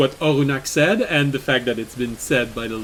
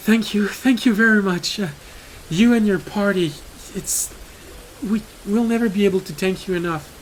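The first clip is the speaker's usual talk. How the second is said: higher, earnest thanking voice; grateful villager; 5 semitones higher than usual. Acted. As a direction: pour out heartfelt thanks.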